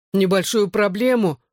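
high incredulous echo; surprised. A narrator's reading. Bar owner echoes Johnny in disbelief. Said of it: "Лем удивлённо вскинул брови".

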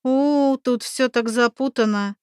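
bubbling over with enthusiasm; enthusiastic. Acted. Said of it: "с воодушевлением произнесла блондинка".

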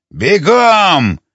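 high-pitched, sharp order; shouted command. A narrator's reading. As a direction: cry it out as an urgent command. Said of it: "закричал Аид". (командный окрик)

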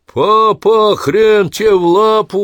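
loud, high cheerful shout; exclaimed. Acted. Son bursts in to greet dying father, loud high shout. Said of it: "вскричал Череп".

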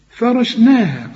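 فرشناها slowly, fa thin and ra heavy; light fa. Shown as a demonstration. Teacher models correct letters, slow. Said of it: "قول لي فا را".

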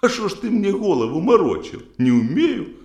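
indignant mother-in-law. Acted. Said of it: "тёща говорит тогда ему".

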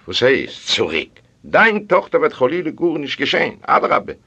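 priest's startled, high-pitched retort; indignant protest. Acted. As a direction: rise sharply in pitch to brush off the worry. Priest jumps up at the question. (אויפֿגערעגט, מיט פּראָטעסט)

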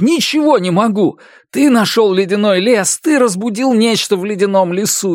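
high, strained pleading shout; anguished outburst. A narrator's reading. Narrator accuses Bael of lying, high anguished shouting. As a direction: cry out the accusation in despair.

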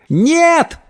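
very high, drawn-out cry; horrified wail. A narrator's reading. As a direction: wail out in horror. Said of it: "завопили пятеро друзей на тротуаре". (высокий вопль ужаса)

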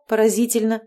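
usual speaking voice

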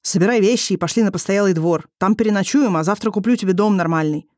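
ordinary delivery, nothing marked

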